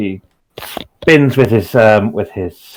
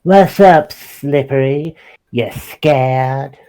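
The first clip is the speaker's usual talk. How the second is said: mild mock yell, pitched up at first; taunting yell back; 4 semitones higher, much slower than usual. Cat fighter goading a frog into attacking, mild taunting yell. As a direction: jeer at a foe, more teasing than shouted. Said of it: "he's gonna yell back".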